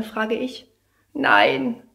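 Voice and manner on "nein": high, whiny little no; whimpering child. Acted. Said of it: "winselt Paula".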